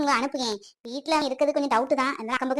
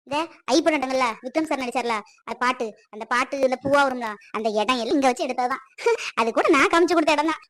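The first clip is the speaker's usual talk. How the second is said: eager, chatty tout selling his services; a bragging small-town guide hustling a customer; boastful local guide. Acted. Local guide Ayyappan touting tours. (பெருமை பேசும் உள்ளூர் வழிகாட்டி குரல்)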